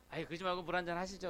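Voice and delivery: mildly coaxing offer, a bit quick; polite urging. Retold or imitated. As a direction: press the offer gently but politely. Offering water a second time. (공손하게 권하는 말투)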